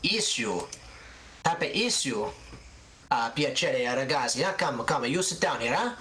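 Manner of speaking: put-on an elderly seamstress boasting of buttons from Genova; proud old Italian seamstress. Gilda welcomes them in.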